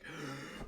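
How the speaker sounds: big audible gasp; mock relieved gasp. Two coworkers relieved after a close call, dramatic gasp. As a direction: suck in a dramatic breath.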